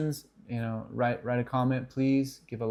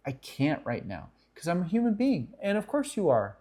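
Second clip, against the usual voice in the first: kind refusal; 5 semitones higher than usual. Shown as a demonstration. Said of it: "tell you respectfully, kindly".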